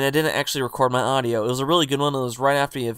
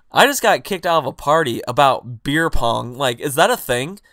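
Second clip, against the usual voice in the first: retold confusion; 4 dB louder than usual. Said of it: "I was so confused".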